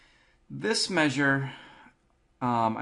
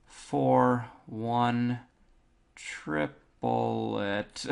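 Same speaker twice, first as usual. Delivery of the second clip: rhythmic counting; much slower than usual. Shown as a demonstration. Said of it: "you'll want to count this to yourself".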